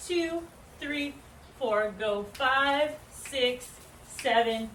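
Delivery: called-out dance count. Shown as a demonstration. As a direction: start the count with energy. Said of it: "So we have".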